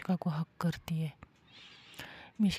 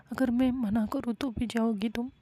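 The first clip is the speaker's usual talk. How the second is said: mild tearful dread; 4 semitones higher than usual. Acted. Mishka tells Sam she can't bear the days without her, mildly tearful and higher. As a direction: let the fear of missing her lift the pitch.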